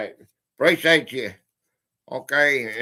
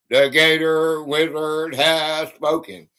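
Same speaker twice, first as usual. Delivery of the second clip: wizard pronouncement; 2 semitones lower, 3 dB louder, slower than usual. Acted. Wizard proclamation.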